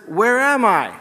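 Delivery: loud, high joke-character call. Acted. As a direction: shout the question to someone down below. Stranded parachutist calls down from tree.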